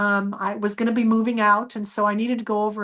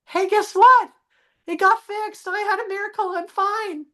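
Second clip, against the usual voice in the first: elated telling her husband she's healed; excited; 10 semitones higher than usual. Retold or imitated. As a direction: burst out with the good news. Joyful announcement after recovery.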